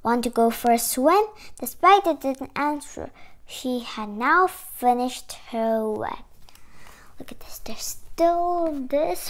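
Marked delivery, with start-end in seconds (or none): 0.0-6.3 measured picture-book reading, clearly projected; story read-aloud. Acted. Reading a spider picture book to children, story read-aloud.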